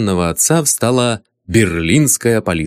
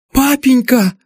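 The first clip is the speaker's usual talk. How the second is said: high startled exclamation; sudden high cry of recognition; surprised cry; 3 dB louder than usual. Acted. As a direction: cry out in shock at seeing her father. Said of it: "вскрикнула она".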